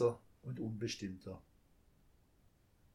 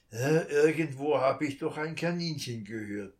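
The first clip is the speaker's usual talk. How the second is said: grumbled to himself; 2 semitones higher, 6 dB louder than usual. A narrator's reading. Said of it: "brummte der Dieb für sich".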